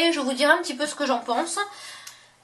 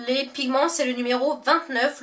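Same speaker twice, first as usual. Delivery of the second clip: ordinary talk, nothing marked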